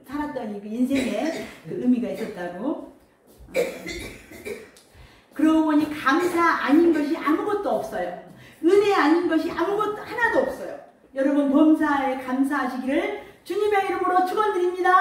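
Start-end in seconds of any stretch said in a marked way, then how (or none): 5.3-14.9 raised-pitch preaching building to a blessing; earnest pulpit proclamation, pitched higher; fervent preaching. Real, not acted. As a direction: exhort the congregation, voice lifted.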